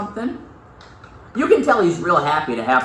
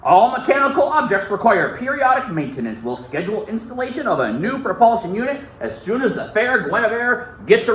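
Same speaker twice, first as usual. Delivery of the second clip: lightly voiced formal kid, a bit higher, every long word spelled out; fancy dictionary talk; 5 semitones higher than usual. Shown as a demonstration. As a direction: read it like a tiny professor. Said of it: "look at how fancy he talks".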